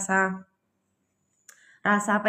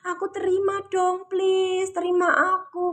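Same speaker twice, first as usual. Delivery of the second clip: higher, pleading; a mild whiny plea; voicing the emotion; 8 semitones higher than usual. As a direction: beg to be accepted, pitched up. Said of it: "teriak gini".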